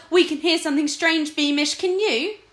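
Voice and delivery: a scared lord calling across the marsh; shouting. Acted. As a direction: keep yelling into the fog.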